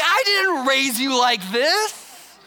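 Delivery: slow, weary parental reproach; exasperated parent. Retold or imitated. Parent scolding an adult child, slow and weary. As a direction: drag it out like a let-down parent.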